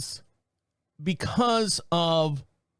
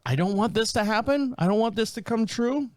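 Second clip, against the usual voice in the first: pleading; 5 semitones higher than usual. Retold or imitated. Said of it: "and I was like".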